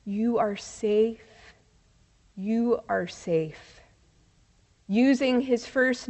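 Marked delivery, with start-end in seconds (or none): 0.0-3.8 slow, hushed and soothing; soft reassurance. Retold or imitated. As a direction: softly repeat it to calm someone, unhurried. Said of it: "Softly, Reverend Spencer was saying".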